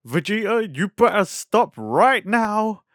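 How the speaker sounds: imitating a wife warning her husband; scolding wife. Bulma scolds Vegeta in retelling.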